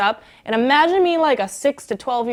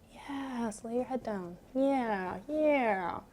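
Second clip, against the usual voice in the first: very soft bedtime coaxing; soothing hush; 12 dB quieter, much slower than usual. Pretend. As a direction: lull them gently, barely above a murmur. Soothing the listener to lie down.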